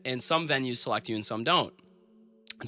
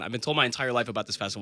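"I've been told my entire life" rattled off fast; fast second take after the digression; fast restart; faster than usual. Real, not acted. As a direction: rush through the restarted line. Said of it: "I'll digress for a second".

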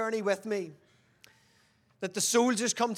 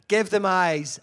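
Elisha's loud reply; 9 dB louder than usual. Acted. Elisha's answer, acted.

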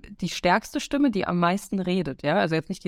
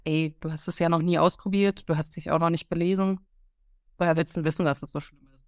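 calming inner voice; 3 semitones lower than usual. Retold or imitated. Inner voice calms her fear of skydiving, mildly soothing. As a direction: talk yourself down gently. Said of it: "eher so die beruhigende Stimme".

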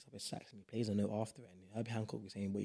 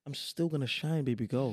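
cocky, a bit louder; sassy defiant; 3 semitones higher, 4 dB louder than usual. Acted. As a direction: brag it sassily. Defiant boast to haters.

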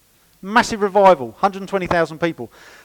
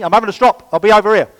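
mock strop; 4 semitones higher, 9 dB louder, faster than usual.

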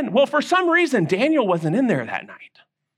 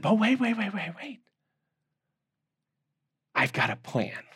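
calming Daniel; 8 dB quieter than usual. Acted. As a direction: hush them, wait, wait. Daniel calmly halts the guards.

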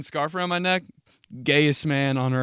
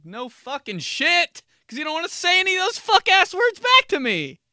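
high, strained rising tirade; exasperated rant; 4 dB louder than usual. Acted. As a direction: blow up at the customer in mock fury. Server mock-rants at customer.

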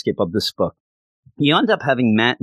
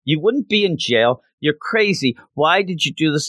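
high, pleading Kirsten, voice jumping up; exasperated Kirsten; 4 semitones higher than usual. Retold or imitated. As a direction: throw the question at him in disbelief. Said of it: "she says".

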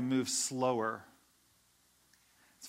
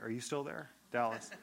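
soft, mock checking on a silent caller; tentative check-in; 3 semitones lower, 7 dB quieter than usual. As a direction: quietly test if the line is live.

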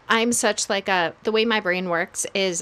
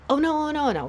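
higher, hammed-up anxious "oh, no"; mock panic; 6 semitones higher, much faster than usual. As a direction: play up the panic, pitch climbing. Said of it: "worry and anxiety".

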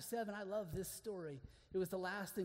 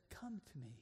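quiet gentle voice; 3 semitones lower, 5 dB quieter than usual. Acted. God's answer retold.

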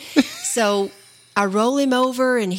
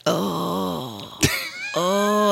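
mock pained groan; 2 semitones lower, 3 dB quieter than usual. Wife imitates her husband faking injury, groaning. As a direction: groan as if badly hurt, playfully.

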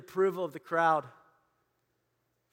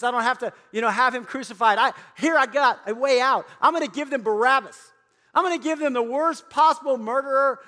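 louder, higher, eager scheming; scheming Pilate; 5 semitones higher, 6 dB louder than usual. Acted. Pilate plotting to offer the crowd Barabbas, eager and louder. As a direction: relish the clever way out. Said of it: "and Pilate thought".

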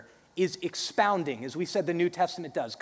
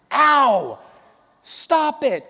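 mock yelp; 9 semitones higher, 12 dB louder, much slower than usual. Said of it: "my mom goes".

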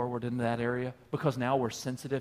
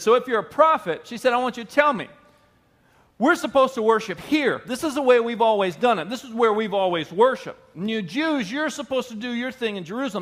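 high, louder challenging voice of the woman; 6 semitones higher, 5 dB louder than usual. Retold or imitated. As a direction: demand an answer from the prophet, high and loud. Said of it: "And she said".

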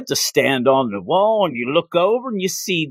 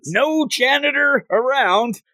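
mock pompous guard; 5 semitones higher than usual. Mocking grand title.

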